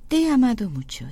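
te he amado mucho run together, te and he blending; linked sounds demo. Shown as a demonstration. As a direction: show how the words link up. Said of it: "이렇게 들리실 거예요".

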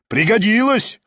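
mocking heckle; shout. A narrator's reading. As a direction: jeer from the crowd. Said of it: "крикнул другой".

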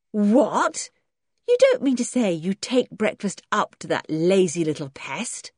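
incredulous outburst, then a disbelieving question; astounded. Acted. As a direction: sound truly astounded.

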